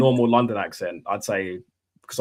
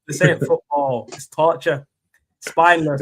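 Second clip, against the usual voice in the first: imitated Man United fan; 2 semitones higher, slower than usual. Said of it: "viral Man United fans".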